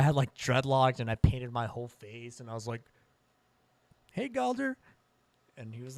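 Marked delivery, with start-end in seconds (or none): 4.1-4.8 high-pitched fan greeting. Retold or imitated. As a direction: imitate an eager fan's high hello. Fan greeting his idol, retold.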